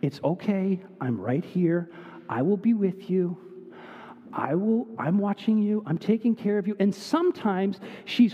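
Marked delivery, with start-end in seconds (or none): 0.0-6.8 put-on a touch softer, gently comforting a scared child; lightly voiced daughter calming a swimmer; soothing words to a frightened kid in the pool; reassuring. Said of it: "she has to be so ridiculously reassuring".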